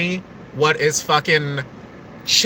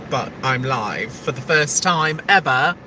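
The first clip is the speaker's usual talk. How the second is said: slipping into a British accent; 3 semitones lower than usual. Real, not acted. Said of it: "I don't know why I'm talking like that".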